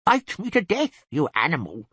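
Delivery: high mock girlish shout. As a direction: squeal it like a giddy girl. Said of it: "pull me by the ears and shout".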